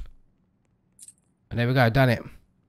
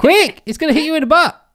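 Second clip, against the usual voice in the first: loud, high-pitched shout of warning; urgent warning; 8 semitones higher, 5 dB louder than usual. Real, not acted. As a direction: call out a sudden danger. Warning partner of danger in game.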